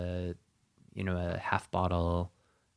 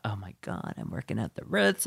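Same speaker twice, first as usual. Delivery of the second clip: giddy excitement; 2 semitones higher, 4 dB quieter than usual. Retold or imitated. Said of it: "I was trying to be fancy".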